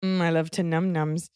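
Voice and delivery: put-on lightly babyish savoring; mock savoring. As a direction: purr it like a treat. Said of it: "jokey savoring voice".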